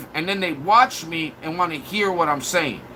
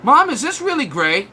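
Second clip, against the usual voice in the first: put-on whiny kid voice; 6 semitones higher than usual. Troll as a kid asking his mom a dumb question. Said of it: "what they asked their mom".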